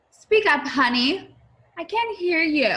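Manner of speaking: high, loud call of a busy mom. Acted. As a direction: raise your voice over the noise, honey. Loud mom can't hear Mary.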